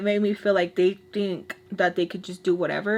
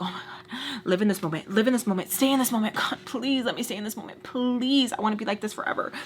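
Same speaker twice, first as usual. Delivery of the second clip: hushed, urgent little prayer; mock pleading; 4 dB quieter, faster than usual. Teller re-enacting her private plea to stay this mad, mock pleading. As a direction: plead under the breath, starting very soft.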